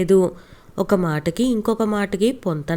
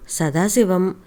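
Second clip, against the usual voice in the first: usual speaking voice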